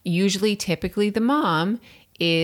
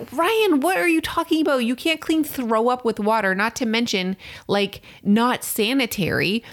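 high, raised voice scolding her husband; high, raised incredulous rant at Ryan; exasperated scolding; 5 semitones higher than usual. Retold or imitated. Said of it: "I'm like".

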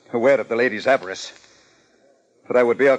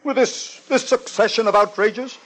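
outraged; 9 semitones higher than usual. Acted. Willoughby outraged at calm detective.

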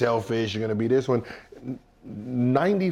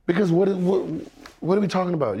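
ordinary talk, nothing marked

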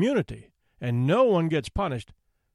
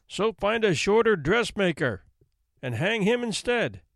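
storming judge; 4 semitones higher than usual. Acted. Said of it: "the judge stormed".

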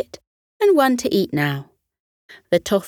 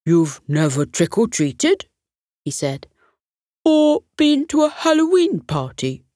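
rising, amazed questions; can't believe what he hears; disbelieving. Acted. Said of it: "shook his head in disbelief".

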